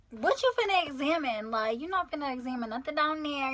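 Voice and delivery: object, taken aback at the very idea; indignant. Retold or imitated. Indignant objection to being examined.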